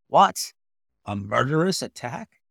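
loud startled question; shocked. Acted. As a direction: jolt at the news. Doctor shocked by answer.

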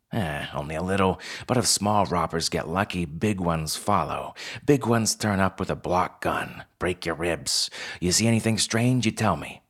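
lightly voiced fox boss giving a warning; a touch of gruff, offhand caution; Pell. Fox co-manager warning newcomer about robbers, matter-of-fact.

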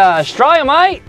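put-on horrible Australian accent. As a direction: do a bad mock Australian accent. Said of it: "for that horrible accent".

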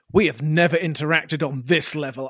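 mock-baffled stammer, breaking into syllables; flummoxed. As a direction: imitate someone lost for words. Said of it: "I'm flummoxed by this".

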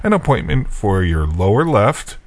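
a touch of a lilting dentist voice; dentist quote. Retold or imitated. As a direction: mimic the old dentist laying out the plan.

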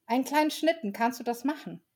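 put-on a light hopeful child; eager child. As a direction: ask hopefully like a small kid. Child asks for sled.

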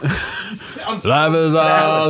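slow, sung through compression; tinny processed singing voice; metallic voice. Acted. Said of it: "you sound metallic".

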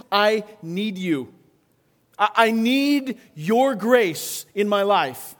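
slow, earnest plea for help; pleading prayer. Acted. Pastor voicing David crying out to God, slow pleading. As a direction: beg God slowly and humbly.

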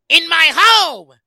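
high, slow shouted Pacino; Al Pacino impression. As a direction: yell it like Godfather Pacino. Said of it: "when he's like".

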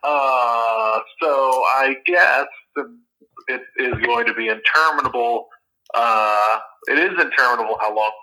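speakerphone sound; tinny voice over phone; phone speaker. Real, not acted. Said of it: "unpleasant to do a podcast on a phone".

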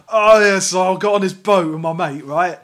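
ordinary bloke's storytelling. Acted. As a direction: belt it out like a bloke boasting to mates. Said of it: "a normal way of telling a story".

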